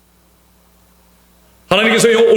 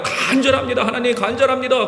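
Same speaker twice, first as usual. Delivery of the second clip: a lightly mocking plea with a laugh in it; half-laughing mock prayer; 3 semitones higher than usual. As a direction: mimic a lukewarm prayer, chuckling. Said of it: "하나님 앞에 나아가긴 나가요".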